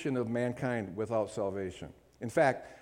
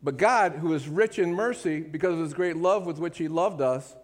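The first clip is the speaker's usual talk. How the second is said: proclaiming; 2 semitones higher than usual. Shown as a demonstration. Preacher announcing good news to the church, ringing proclamation. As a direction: announce the great news with a ringing But God. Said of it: "you're gonna hear some really great stuff now".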